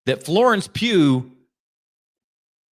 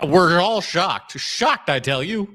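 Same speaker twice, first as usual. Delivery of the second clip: slow, sarcastic mock shock; slower than usual. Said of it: "why the sarcastic tone?".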